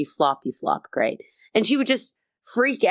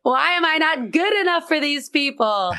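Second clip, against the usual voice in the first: mock self-pity; 5 semitones higher than usual. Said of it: "I really go through life going".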